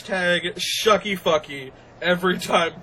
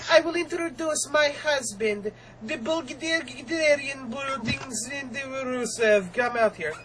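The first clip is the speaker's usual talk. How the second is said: Lana's entrance line in a higher, put-on Eastern European accent; mock Eastern European accent; 6 semitones higher, 4 dB quieter, slower than usual. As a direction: raise the pitch and imitate Lana's accent, lightly mocking. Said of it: "I cannot hold this accent".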